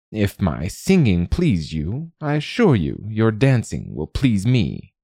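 slow, swooping queenly crow; regal crow queen, coaxing. Acted. Crow queen reassures the shy girl, grandly coaxing. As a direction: coax grandly, drawing the words out.

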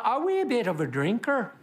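a hint of an Irish lilt on "wee bit"; light Irish accent. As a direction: say "a wee bit of a drinker" with a touch of Irish brogue. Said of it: "why I went Irish there".

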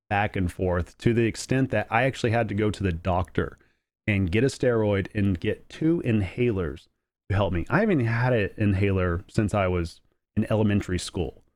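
stuffy nose, nasal allergy voice; a bit nasal and sniffly from allergies. Real, not acted. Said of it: "if I sound a little nasally, a little sniffly".

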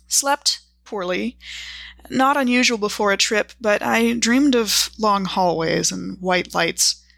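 measured journal narration with deliberate pauses between entries; journal reading. Acted. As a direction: read your travel diary aloud, item by item, with dry understatement. Reads out her character's journal.

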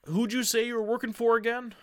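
high, suspicious guard's voice, pointed question. Acted. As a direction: press him like a wary gatekeeper.

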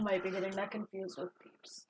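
whispered aside; hushed confession under breath; whispering. Real, not acted. Quiet aside.

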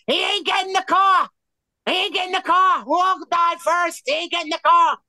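high-pitched, insistent yell; retold defiant shouting. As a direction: shout it high, refusing to give in. Acted defiant shouting of friend.

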